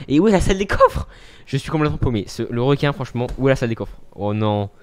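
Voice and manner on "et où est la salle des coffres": lost call. Real, not acted. Lost in the Fortnite map.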